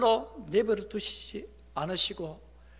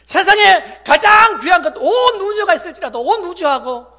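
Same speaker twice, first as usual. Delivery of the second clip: loud, high, impassioned proclamation; full-force preaching; 11 semitones higher, 17 dB louder than usual. Real, not acted. Pastor proclaiming Christ gave up everything, preaching at full force. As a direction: ring it out over the congregation.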